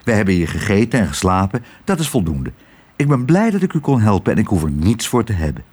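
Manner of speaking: put-on modest young father. Tos answers Twiddle.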